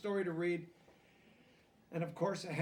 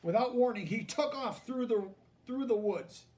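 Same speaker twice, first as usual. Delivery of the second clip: louder and higher, sudden action; building suspense for the kids; excited storytelling; 8 semitones higher, 11 dB louder than usual. A narrator's reading. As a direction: read the chase with rising excitement.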